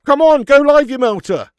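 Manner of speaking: real exasperation at the stream; impatient shout. Real, not acted. Streamer yells at lagging stream, impatient loud. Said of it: "urging stream".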